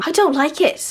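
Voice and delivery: ordinary talk, nothing marked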